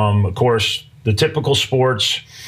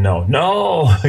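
imitating kids yelling in protest; second no drawn out in mild mock outcry; half-voiced crowd protest. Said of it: "started yelling".

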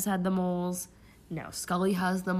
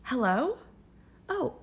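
put-on stilted old movie melodrama; 4 dB louder, faster than usual. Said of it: "like when you're trying to, like, pretend you're busy".

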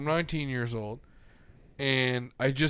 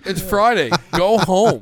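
louder and higher, dismissive shout; angry yell; 6 semitones higher, 13 dB louder, slower than usual. Retold or imitated. Driver shouting at crying woman to go home, angry yell. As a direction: order her home, loudly. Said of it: "I was like".

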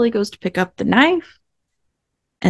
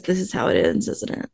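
quiet retold quote; 6 dB quieter than usual. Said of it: "And Norman just says".

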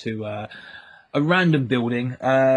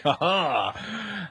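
mock gotcha laugh, higher pitched; imitated "ha ha"; 5 semitones higher than usual. Hat lady turning on the men, mock laugh. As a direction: imitate a mysterious lady's "ha ha!". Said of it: "turns around and is like".

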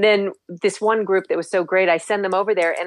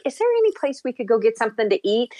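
tourist asking; 4 semitones higher, faster than usual. Retold or imitated. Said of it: "they're like".

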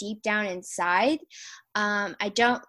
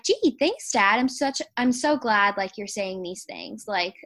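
mock-grateful, dripping sarcasm; sarcastic thanks; 3 dB louder than usual. Sarcastic thanks to her dad about her eating. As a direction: thank him with fake gratitude. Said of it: "I'm just like".

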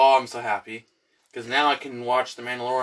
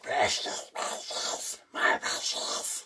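hushed, raspy creature whisper; Golem; 6 dB quieter, much slower than usual. Acted. Friend showing what crusty looks like, whispered creature impression. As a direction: hiss it out slowly, voiceless and soft. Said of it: "You know Golem was like".

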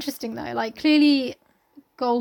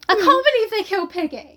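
high, louder lament; mock grief; 10 semitones higher, 4 dB louder than usual. Co-host mourning Piggy, mock-devastated. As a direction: wail it in exaggerated disbelief.

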